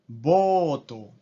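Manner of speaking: voto as bo-to, two flat syllables; Japanese loanword. Shown as a demonstration. Teacher modelling the Japanese form: ボート. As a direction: turn boat into boto. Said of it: "boat se convierte en voto".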